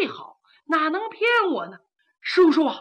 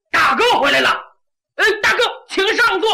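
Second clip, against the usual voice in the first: much higher, fast, fawning greeting; eager welcome; 6 semitones higher, 4 dB louder, much faster than usual. A narrator's reading. Meng Liang jumping up to greet his returning eldest brother, eager and fast. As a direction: rush to flatter the big brother.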